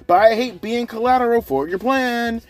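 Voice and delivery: pissed-off wrestler mocked in a high whiny voice. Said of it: "pissed off 'cause he's like".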